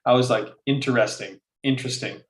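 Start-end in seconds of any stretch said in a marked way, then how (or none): 0.7-1.4 INTERESTING with every syllable, in-ter-est-ing; low-key, full "in-ter-esting"; four-syllable interesting. Retold or imitated. Retelling muttered practice on the couch, fully pronounced. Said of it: "how many ways there is to say interesting". 1.6-2.2 INTERESTING squeezed to "in-tresting"; shortened interesting. Retold or imitated. Retelling muttered practice on the couch, syllable dropped. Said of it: "how many ways there is to say interesting".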